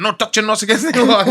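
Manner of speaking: science teacher imitation. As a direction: laughingly play the strict teacher. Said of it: "he'd be like".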